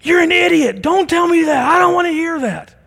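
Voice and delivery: high, loud, furious shout at a sibling; angry yelling brother. Retold or imitated. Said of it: "My brother just started yelling at me more".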